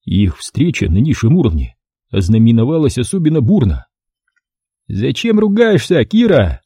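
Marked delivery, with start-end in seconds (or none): 4.9-6.6 high thin male voice; high squeaky man; thin reedy voice. A narrator's reading. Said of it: "тоненький голосок кастрата".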